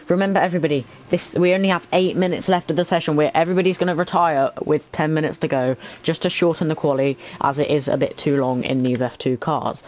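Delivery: flat monotone commentary; robot voice. Real, not acted. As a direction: drone on like a robot. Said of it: "I feel like I am talking like a robot".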